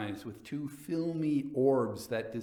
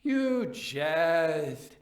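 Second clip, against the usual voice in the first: high, loud recoiling cry; startled exclamation; 5 semitones higher, 6 dB louder than usual. A narrator's reading. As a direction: exclaim in alarm. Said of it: "he exclaimed".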